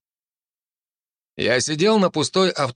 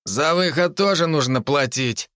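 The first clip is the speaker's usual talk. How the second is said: russian street thug; 5 semitones higher than usual. Acted. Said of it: "услышал крик позади".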